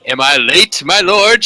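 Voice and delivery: a lightly voiced coy lady, rising high at the end. Lady Sunskin teasing the lord as she arrives, coy. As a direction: tease him sweetly. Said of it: "she asked".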